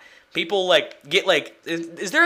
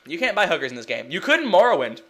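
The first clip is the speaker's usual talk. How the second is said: ordinary talk, nothing marked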